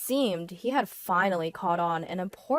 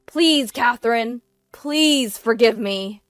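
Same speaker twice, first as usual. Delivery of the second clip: loud, higher begging; pleading; 4 semitones higher, 9 dB louder than usual. A narrator's reading. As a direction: beg your wife for forgiveness. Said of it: "With a pleading voice, he begged".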